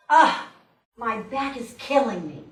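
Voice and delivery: a loud opening groan of complaint; mock-suffering emphatic moan. Speaker imitates people decreeing negatives, an emphatic complaint. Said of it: "these emphatic decrees".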